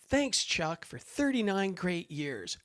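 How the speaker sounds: bright, high, slow poster voice; cheery. Retold or imitated. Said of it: "has that kinda cheery".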